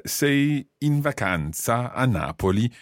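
slowly, word by word, for a learner; slow, careful repetition. Acted. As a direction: spell out the question slowly, with clear breaks. Repeats question after learner didn't understand.

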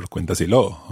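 "cuéntaselo" with the stress moved onto the last syllable LO; wrong final stress. Shown as a demonstration. Teacher showing another wrong version, stress on final LO in "cuéntaselo". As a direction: say "cuéntaselo" as cuenta-se-LO. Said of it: "or anything like that".

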